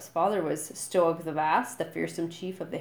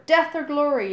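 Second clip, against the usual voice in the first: much higher, much louder chant; fanatical yell; 9 semitones higher, 9 dB louder than usual. A narrator's reading. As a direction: shout it back with zeal. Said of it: "yelled eight boys back at him fanatically".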